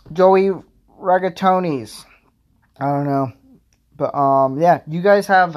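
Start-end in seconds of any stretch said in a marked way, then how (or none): 0.1-2.0 high, loud mock name drop; hammed-up Joey. Introducing himself on the date, a high loud hammed-up name. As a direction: announce a made-up Italian name with flair. Names the character.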